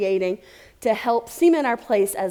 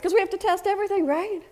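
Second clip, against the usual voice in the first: quick, high mock-anxious test everything; mock panic; 9 semitones higher, faster than usual. Speaker mocking testers who want to test everything, mock panic. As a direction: ham up the worried tester.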